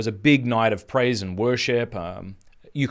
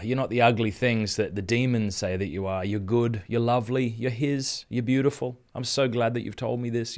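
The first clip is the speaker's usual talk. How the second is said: tender comfort; 3 dB quieter than usual. Retold or imitated. Tender words to crying girl.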